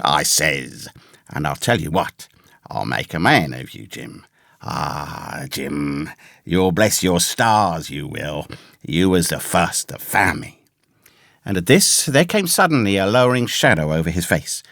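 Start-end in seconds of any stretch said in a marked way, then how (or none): 0.0-10.6 low, softened rustic castaway voice; Ben Gunn. A narrator's reading. Castaway promising to reward Jim for finding him, low and fervent. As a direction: promise it in a low, confiding country voice. Castaway's speech in read story.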